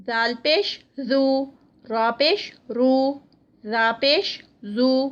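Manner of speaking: even syllable-by-syllable drill, full short "او" sound; measured letter drill. Shown as a demonstration. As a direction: spell each letter with پیش, vowel neither dragged nor jerked. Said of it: "لمبا کھینچنا ہے اس کو اور نہ ہی جھٹکا". (حروف کی ٹھہری ہوئی مشق، نہ لمبا نہ جھٹکا)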